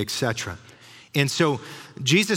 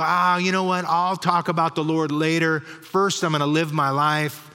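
mock casual brush-off; 3 semitones higher than usual. People putting off talk about the Lord, mock casual brush-off. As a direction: lightly act out someone waving it off.

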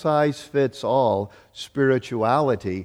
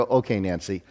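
mock patient husband; 4 semitones lower, 5 dB quieter than usual. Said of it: "I go".

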